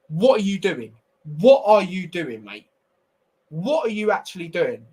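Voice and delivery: exasperated. Real, not acted. Fan venting at Mendy's extra touch, exasperated. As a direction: berate the keeper in disbelief. Ranting at the goalkeeper's mistake.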